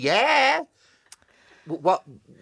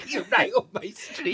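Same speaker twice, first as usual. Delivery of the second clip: put-on Geordie accent. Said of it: "That's gone a bit pop singer".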